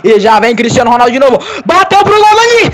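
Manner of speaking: rising excitement. Real, not acted. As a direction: build fast toward the goal. Shot leads to goal. (narração subindo de tom)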